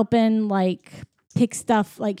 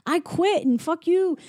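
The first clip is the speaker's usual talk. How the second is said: mock fed-up lady; 7 semitones higher than usual. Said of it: "And she's like".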